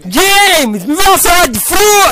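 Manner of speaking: high squeaky shouted plea; James meme voice. Retold or imitated. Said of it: "Mas o James!".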